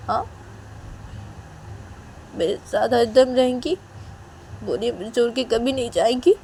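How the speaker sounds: urgent questions rising at the end; acted, demanding a yes; insistent pleading. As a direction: press hard for a promise, voice lifted. Nidhi demands a promise to marry.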